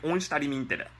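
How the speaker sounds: lightly mocked Japanese accent, Onstari mintere. Shown as a demonstration. Teacher repeating the mock Japanese accent, lighter. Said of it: "that's what it sounds like".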